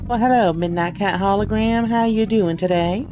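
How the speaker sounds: mock Southern twang; southern accent. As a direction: put on a folksy Southern accent. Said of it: "Has Rika tried the accent?".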